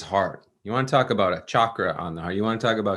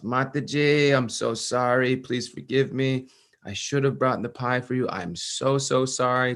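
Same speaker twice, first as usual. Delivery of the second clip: higher, earnest begging; pleading apology; 3 semitones higher than usual. Retold or imitated. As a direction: beg forgiveness from the floor. Full dandavat begging forgiveness.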